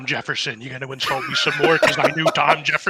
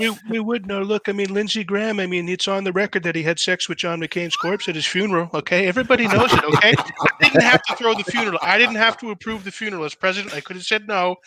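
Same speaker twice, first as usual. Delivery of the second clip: higher, brash presidential bluster; Trump-style rant; 4 semitones higher than usual. Pretend. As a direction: boast it like a blowhard president.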